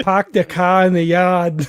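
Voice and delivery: a hint of Australian accent, slow; fake Australian accent. Shown as a demonstration. Slowly tested Australian accent. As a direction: player trying an Australian accent on a stock phrase. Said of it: "imagine I'm speaking in an Australian accent".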